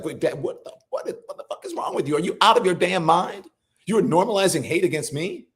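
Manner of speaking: disbelieving, jumping high and fast; imitated shock at dad. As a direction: act out confronting your father. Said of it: "I'd be like".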